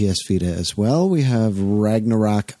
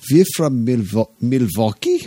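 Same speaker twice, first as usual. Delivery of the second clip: mock Milwaukee accent. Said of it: "he put on an accent".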